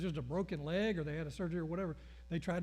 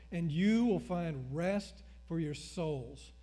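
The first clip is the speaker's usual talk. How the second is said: slow, solemn recitation; scripture reading; slower than usual. Acted. Preacher recites Jesus to the congregation, solemn. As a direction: recite the verse like an invitation.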